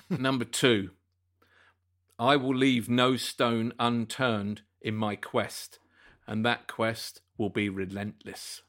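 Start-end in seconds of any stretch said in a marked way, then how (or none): 2.2-8.6 slow, measured quiz reading; solemn quote reading. Acted. Quizmaster reads a mystery quote to panel, slow solemn delivery. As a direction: spread the phrases out portentously.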